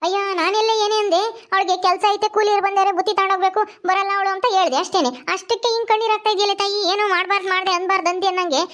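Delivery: high village auntie voice; protest, then relent to the crying woman; defensive mother-in-law. Acted.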